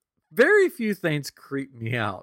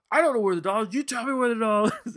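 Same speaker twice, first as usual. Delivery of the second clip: put-on higher and louder kid voice, a laugh slipping in; son interrogating; 11 semitones higher, 4 dB louder, faster than usual. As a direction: imitate the boy insisting. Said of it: "He goes".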